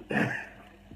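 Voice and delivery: brief voiceless laugh; real puff of laughter; short laugh. Real, not acted. Streamer amused by his mysterious-country wish, short laugh.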